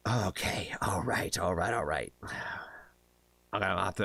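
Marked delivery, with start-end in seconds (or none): 0.1-2.1 whisper. Real, not acted. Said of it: "whispering to self before reading".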